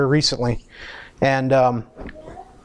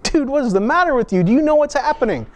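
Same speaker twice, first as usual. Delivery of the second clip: astonished friend; 8 semitones higher, faster than usual. Retold or imitated. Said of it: "peace that it's like".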